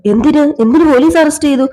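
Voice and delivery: lightly acted mother's alarm; mild acted alarm. Mother reacts to arrest news.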